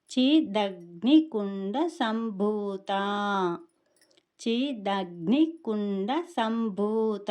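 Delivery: చి దగ్ని కుండ సంభూత very slow, syllable groups apart; pronunciation demo. Shown as a demonstration. Teacher models the whole name for learners, slow, measured chant-like delivery. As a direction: draw out the భూ and final తా of సంభూత. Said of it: "అనేసని పలకాలి".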